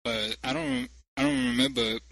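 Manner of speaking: slurred tipsy prank call; getting drunker. Pretend. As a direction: play it sloppy drunk on the phone. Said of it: "I'm a little drunk".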